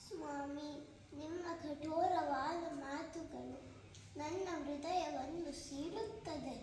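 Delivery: hurt, measured stage pleading; Sita. Acted. Sita questions her lord's doubt, wounded pleading. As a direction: plead solemnly, phrase by phrase. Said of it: "ಸೀತಾಮಾತೆಯ ಒಂದು ಪುಟ್ಟ ಪ್ರಾ-, ಪಾತ್ರವನ್ನು ಪ್ರದರ್ಶಿಸುತ್ತಿದ್ದೇನೆ".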